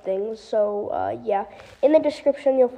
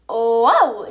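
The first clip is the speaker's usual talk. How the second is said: startled whoa; 6 dB louder than usual. Acted. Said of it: "yelled Dryas".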